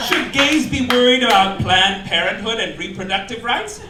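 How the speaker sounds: high squealy mock gay-magazine voice, very high on the one-word answers; mock gay press voice. Comic mocking gay magazine headlines in a high camp squeal. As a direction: shriek the silly questions in a high camp voice.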